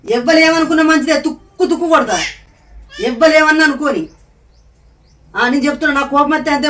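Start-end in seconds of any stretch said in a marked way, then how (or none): 0.1-4.1 louder, half-laughing threat; mock angry outburst. Mother-in-law showing how angry she gets, louder mock threat. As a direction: blow up in play-acted temper, chuckling. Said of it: "ఎంత కోపం వస్తుంది అంటే".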